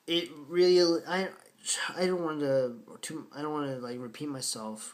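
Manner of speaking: real stumbling false starts; stammering. Real, not acted. Film reviewer searching for words to praise an actress, stammering. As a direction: stumble over your words, restarting. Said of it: "I'm kinda stammering over myself".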